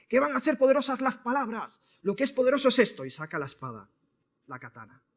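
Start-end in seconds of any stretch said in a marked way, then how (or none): 0.1-3.1 high, loud, scornful indignation; indignant outburst. Acted. Warrior mocking the power of words as he draws his sword, indignant. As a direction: scoff loudly at such a ridiculous claim. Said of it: "El maestro Wei indignado dice".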